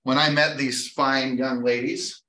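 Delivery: usual speaking voice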